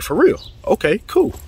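thrilled, eager for real; excited disbelief. Retold or imitated. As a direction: pitch jumps way up in delighted surprise. Stunned by news of interview.

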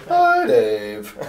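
sing-song church lady. Retold or imitated. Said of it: "she had kind of a sing-song voice".

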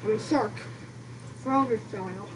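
talking through a mouthful; chewing while talking; mouth full. Real, not acted. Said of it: "Quit talking with your mouth full".

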